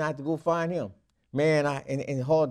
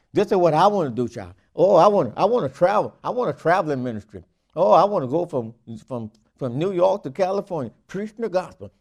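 louder, gushing wannabe travelling preacher; mock eager minister; 5 dB louder than usual. Preacher mocking a congregant's dream, gushing and louder. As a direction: ham up a starry-eyed dreamer.

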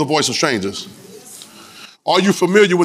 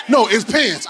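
somebody correcting; 4 semitones higher, slower than usual. Acted. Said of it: "then somebody say".

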